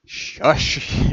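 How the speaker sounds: whispered "Shush". Acted. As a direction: hush them sharply. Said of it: "interrupts Alex".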